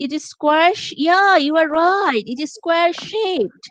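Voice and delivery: rising, drawn-out praise for a pupil; gentle praise stretched out slowly; encouraging teacher intonation. Shown as a demonstration. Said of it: "using intonation".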